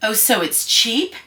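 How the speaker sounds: slow, drawn-out sarcastic question. Retold or imitated. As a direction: retell the jab to the gallery girl with mock innocence. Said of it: "this is me being just sarcastic".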